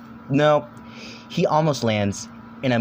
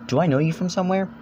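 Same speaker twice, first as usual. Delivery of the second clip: higher female voice; 7 semitones higher, faster than usual. Acted. Gali voiced by narrator.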